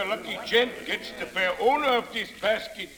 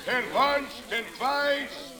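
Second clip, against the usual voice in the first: auctioneer; 3 semitones higher than usual. Acted. Auctioneer closing the final sale.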